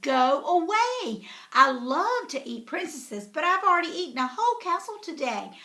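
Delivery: a hint of an impatient dragon shooing her off. Dragon turning Elizabeth away again. Dragon repeats lines, rising.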